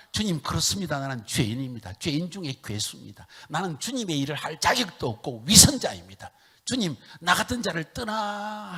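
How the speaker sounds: loud, high pleading confession; repentant lament. Retold or imitated. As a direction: confess with rising grief. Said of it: "애통함이 회개하는데".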